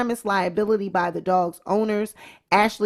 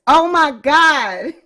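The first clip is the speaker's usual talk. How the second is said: 1 laughing; 2 semitones higher, 6 dB louder, much slower than usual. Real, not acted. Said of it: "laughing fit".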